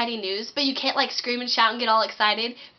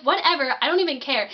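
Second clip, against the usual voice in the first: dismissive whatever; 3 semitones higher than usual. Retold or imitated. Dismissive diners.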